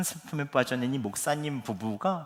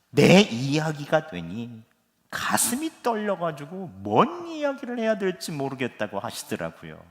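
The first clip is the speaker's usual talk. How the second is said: ordinary delivery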